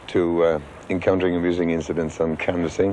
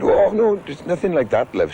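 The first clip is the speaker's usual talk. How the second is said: voicing the woman; 10 semitones higher than usual. Woman at door voiced in anecdote.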